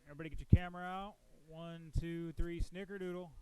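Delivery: loud, fast call to the crowd. Real, not acted. Announcer calls the crowd to raise cameras, loud and fast. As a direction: rattle it off loud to get everyone's attention.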